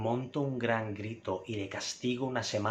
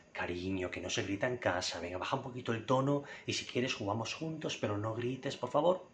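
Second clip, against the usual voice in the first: good-mood gentle request. Shown as a demonstration. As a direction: ask your kid kindly not to shout. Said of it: "estoy de buen humor".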